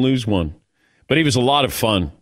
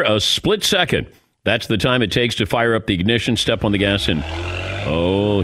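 upbeat radio promo read; live host ad read; sponsor read. Acted. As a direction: sell the weekend lineup and the car. Host reads promo and sponsor spot.

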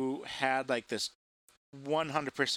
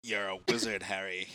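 put-on British accent; 4 semitones lower than usual. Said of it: "Do your British accent for us now".

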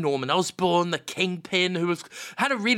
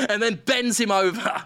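ordinary talk

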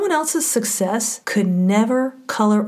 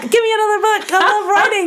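excited; 12 semitones higher, 5 dB louder, much faster than usual. Retold or imitated. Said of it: "I'm like".

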